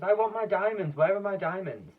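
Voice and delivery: high, loud frantic demand; demanding Duchess. Acted. Duchess frantically demanding her diamonds back, loud. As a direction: insist like a spoiled grande dame. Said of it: "screamed the Duchess".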